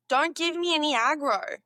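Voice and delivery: Australian accent attempt. Shown as a demonstration. Learner voicing an example sentence, mock Australian accent. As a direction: pitch it up like a cheeky Australian. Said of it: "test them out".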